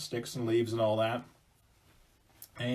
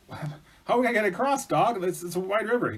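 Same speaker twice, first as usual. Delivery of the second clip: raised, higher worried voice; mild mock panic; acted dismay; 8 semitones higher, 3 dB louder than usual. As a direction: fret loudly at being stuck. Hunter stuck at raging river.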